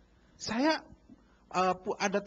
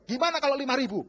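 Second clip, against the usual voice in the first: louder, cheerful offer above the price; cheerful offer of more than the price to the vegetable seller; generous mock offer; 5 semitones higher, 7 dB louder than usual. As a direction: surprise the seller with more money. Generous offer in retold scene.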